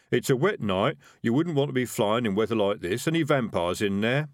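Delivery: lightly voiced rogue making inquiries; highwayman. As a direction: casually check for danger inside.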